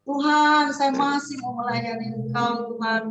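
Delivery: drawn-out cry to God; retold plea, swelling loud on key words; pleading prayer. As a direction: implore God not to take you.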